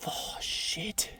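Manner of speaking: a second breathy, near-voiceless whispered curse; hushed whisper. Real, not acted. Prospector still whispering to himself over the gold. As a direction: keep it hushed as the shock lands. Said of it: "I'm being really quiet".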